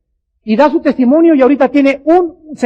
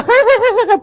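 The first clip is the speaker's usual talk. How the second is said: high, mock carefree laughter; put-on outward laugh; 11 semitones higher than usual. Tormented man covering his misery in front of others, put-on laugh. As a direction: act out a false merry ha-ha-ha. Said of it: "por afuera".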